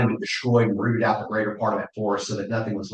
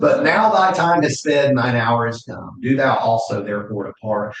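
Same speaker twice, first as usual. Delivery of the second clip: mock olde english; 3 dB louder than usual. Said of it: "I keep wanting to go into my Shakespearean, uh, voice".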